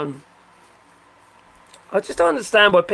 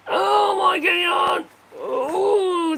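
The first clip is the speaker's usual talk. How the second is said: much higher, a burst of remembering; sudden excited cry; 11 semitones higher, much slower than usual. Real, not acted. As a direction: shout it as it comes back to you.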